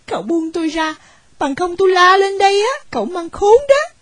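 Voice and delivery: put-on girl shouting at the rich young man; crying out. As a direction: threaten to scream for help. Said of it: "tôi mới la lên rằng".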